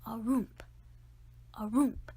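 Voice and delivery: a hushed imitated roomp, roomp; mock ghost thump. Boy imitating a ghost's footsteps, mock spooky. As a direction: sound out the ghost's clunky steps. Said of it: "like that".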